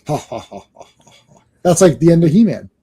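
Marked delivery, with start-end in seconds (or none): 0.1-1.4 -4 dB staged villain laugh. Acted. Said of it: "Gladiator laughs".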